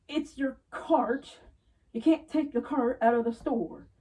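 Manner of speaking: mock scolding. Scolding customers at alarm.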